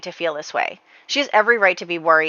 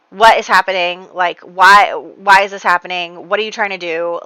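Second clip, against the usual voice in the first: acted-out exasperated demand, louder at first; retold bewildered protest, hitting the questions hard; worked up; 7 dB louder than usual. Son confronting his scheming mother, mock worked-up protest. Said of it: "everybody's getting worked up".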